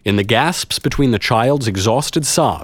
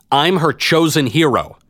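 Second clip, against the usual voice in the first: higher-pitched declaring voice; public proclamation; 7 semitones higher than usual. A narrator's reading. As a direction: declare it so the whole crowd hears. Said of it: "I wanted as many people to hear me as possible".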